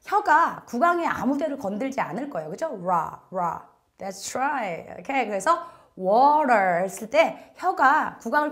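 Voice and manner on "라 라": 라 said short with the tongue touching nothing; Korean ra. Shown as a demonstration. Teacher modelling 라 for students to copy. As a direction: say 라 with a free, lifted tongue. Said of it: "라 하시면 혀가".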